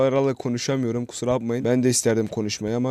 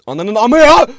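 high, loud frustrated shout; loud yell; 8 semitones higher, 11 dB louder, slower than usual. Real, not acted. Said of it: "Pardon fazla bağırdık". (sinirle yüksek sesle bağırış)

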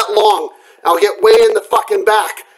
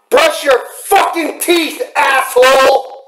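slow, sneering insult; drawn out like a jab; mocking taunt; 3 semitones higher, slower than usual. Real, not acted. Taunting neighbor through wall.

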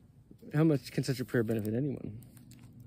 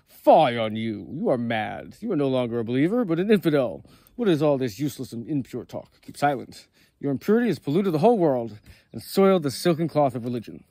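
angry rebuke; 5 dB louder than usual. Acted. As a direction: scold him as a prophet would a heretic. Moses rebukes the shepherd.

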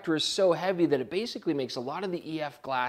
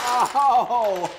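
surprised; 9 semitones higher, 9 dB louder than usual. Real, not acted. Surprised exclamation mid-show.

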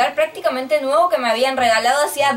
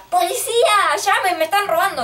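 higher mock cry for police; imagined yell for help; 6 semitones higher than usual. Girl imagining what she should have yelled, mock call for help. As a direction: call out for help, half-performed. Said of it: "no se me ocurría gritar".

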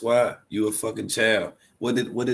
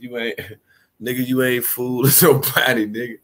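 laughing roast. Real, not acted. Friend roasting, laughing mid-line.

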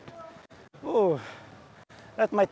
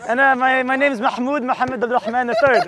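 put-on lightly accented foreign introduction; foreign baller character. Newcomer gives his long name, foreign baller character. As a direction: introduce yourself as the visiting foreign player.

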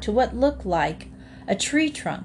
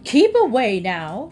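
louder warning to the alligators; a stout-hearted cow facing down alligators, louder; threatening cow; 3 semitones higher, 6 dB louder than usual. Acted. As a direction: stand your ground and warn them off. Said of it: "shook them threateningly".

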